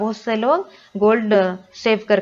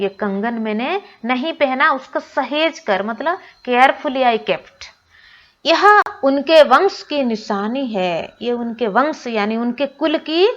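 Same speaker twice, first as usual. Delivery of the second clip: a lightly voiced granny, a touch choked; moved granny; 4 semitones higher than usual. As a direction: show the bangle as granny, moved. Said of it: "उनका गला भर आया".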